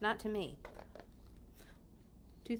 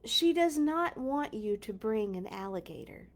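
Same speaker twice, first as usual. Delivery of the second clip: measured read-aloud with pauses between items; storybook narration; 8 semitones higher, 5 dB louder, slower than usual. A narrator's reading. Reader to children about what to bring, storybook narration. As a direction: read a picture book out to young listeners. Reads picture book aloud.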